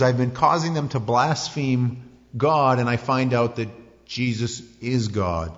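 mock-stricken Paul; dismayed Paul. Paul realizing his error.

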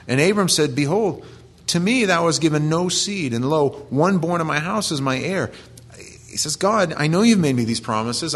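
high, pressing plea to God, voice lifted throughout; pleading Abraham. Retold or imitated. Preacher voicing Abraham pleading with God, high and urgent. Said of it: "And Abraham says".

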